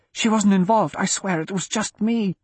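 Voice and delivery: high, hurried-sounding desperate plea; begging. A narrator's reading. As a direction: plead with an armed man to spare her. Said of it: "Wyatt begged".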